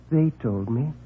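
soft, stammering, shy voice; timid little man. Acted. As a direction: mumble it apologetically.

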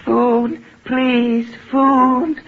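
loud, pleading cry for food; desperate begging. Acted. Starving prisoner begging his jailer, loud and desperate. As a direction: beg for it like a starving man.

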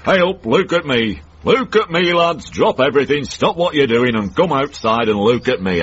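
high mock shout, bragging to everyone; show-off sun yelling. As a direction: crow it out like a swaggering sun demanding attention. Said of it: "it screams out at the top of its voice".

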